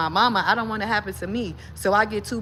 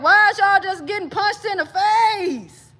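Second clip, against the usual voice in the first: near tears; 9 semitones higher, slower than usual. Real, not acted. Outraged at repeated attacks.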